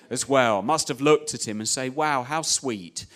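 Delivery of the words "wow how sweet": fond. Retold or imitated. God fondly watching angry Jonah.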